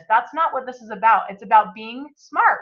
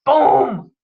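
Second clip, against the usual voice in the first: excited; 3 semitones higher, 5 dB louder than usual. Real, not acted. Motivational punchline.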